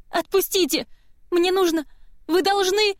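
high, loud, desperate shrieks; frantic screaming. Acted. Girl fighting the guard to reach her brother, high frantic screams. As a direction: scream to break free. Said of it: "Кива кричала и пиналась, безутешно рыдая".

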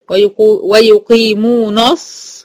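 "ويقيمون الص" drawn slowly with a dark "nos"; wrongly heavy noon. Shown as a demonstration. Teacher demonstrates the mistake, "ويقيمون الص" with heavy noon. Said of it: "لا، ويقيمون".

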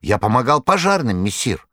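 high, theatrical storyteller voice; a buffoon spinning a breathless yarn, high; Koroviev's tale. A narrator's reading. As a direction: Koroviev dramatically retells the fire to his master.

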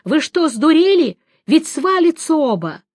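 high, loud outraged shout; angry yell. A narrator's reading. Bard yells at the hesitating crowd, outraged high shout. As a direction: scold them at the top of the voice. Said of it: "кричал Лютик".

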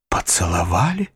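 shocked, disbelieving question; astonished outcry at the news; exclaiming in surprise. A narrator's reading. Nephew cries out, astonished at his uncle's confession. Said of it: "вскричал я, смотря в изумлении".

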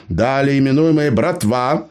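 put-on high-pitched cheeky old gnome. A narrator's reading. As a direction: play the crafty gnome, pitched well up. Gnome dictates contract.

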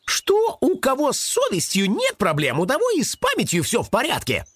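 high teasing rabbit, speeding up; smirking rabbit. A narrator's reading. Rabbit teasing Karych about his memory, smirking. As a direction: needle him in a high voice. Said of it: "усмехнулся кролик".

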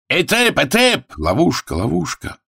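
high, quick outcry; crowd cries. Acted. Spectators protest at a trap, high cries. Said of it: "крики".

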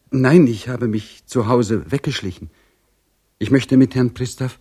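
a frightened maid who slipped out of the house; timid maid. A narrator's reading. Voices the maid Dorchen. (höhere Stimme eines ängstlichen Dienstmädchens)

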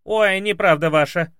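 high, loud protest; arguing maid. Acted. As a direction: push back like a stubborn maid. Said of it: "начала спорить Василиса".

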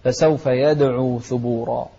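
يدعو with a bouncing د; qalqala. Shown as a demonstration. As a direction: release the د in يدعو with a short echo. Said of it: "بالقلقلة".

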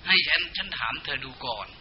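soft, gentle consoling voice of Yama; comforting. Retold or imitated. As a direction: hush a weeping soul kindly. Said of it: "พญายมนั้นก็จะปลอบใจ". (น้ำเสียงปลอบโยนอ่อนโยน)

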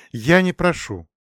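usual speaking voice

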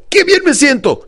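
high, drawn-out exclamation; enthusiastic affirmation. Retold or imitated. Client countering her negative thought, enthusiastic. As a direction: declare it slowly with conviction. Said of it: "pero con entusiasmo".

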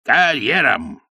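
barked arena commands; ringmaster shouting commands. A narrator's reading. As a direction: shout the paces to the donkey. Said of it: "директор не скомандовал снова". (громкая команда)

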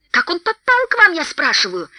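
angry shout. A narrator's reading. Thorin demanding to know how they got the stone, shouting. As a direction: demand it, anger building to a shout. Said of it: "с нарастающим гневом закричал Торин".

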